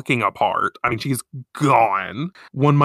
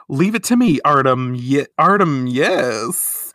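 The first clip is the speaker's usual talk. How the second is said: mocking Lin Lin; 4 dB louder than usual. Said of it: "she says".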